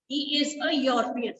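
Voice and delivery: "European" said slowly with an opening y sound; careful pronunciation. Shown as a demonstration. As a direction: model "European" slowly, starting on a y glide. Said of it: "जब तक आपकी pronunciation ठीक नहीं होगी". ("European" को धीरे, शुरू में य की आवाज़ के साथ)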